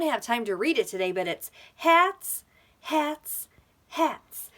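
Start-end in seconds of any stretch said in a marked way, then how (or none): 1.8-4.5 excited. Pretend. Excited about hats.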